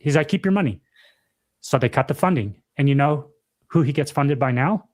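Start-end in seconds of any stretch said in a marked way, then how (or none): 0.3-0.8 a hint of a Russian accent, lightly put on. Nigerian president brushing off Biden's threat, in a light mock Russian accent. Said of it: "I don't know why he speaks Russian".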